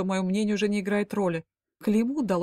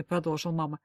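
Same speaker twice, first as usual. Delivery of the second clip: plain reading voice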